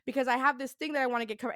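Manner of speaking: imitated nervous talk, speeding up; nervous rambling. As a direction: act out launching into a nervous explanation. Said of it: "I just start talking 'cause now I'm nervous".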